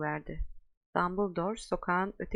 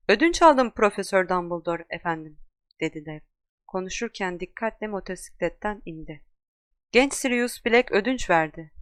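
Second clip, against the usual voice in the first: loud, hearty giant answering his master; a big rough-mannered giant reporting in, loudly; booming giant Hagrid; 6 dB louder than usual. Acted. Giant Hagrid reports to Dumbledore, loud and hearty.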